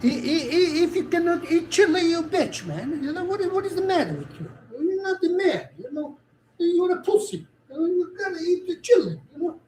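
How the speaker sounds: fake Italian accent. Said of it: "he's trying to fake accent".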